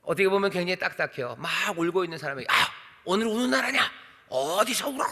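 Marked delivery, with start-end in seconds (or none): 2.5-5.0 stern rebuke. Retold or imitated. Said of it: "라고 말하는 것처럼 들릴 수도".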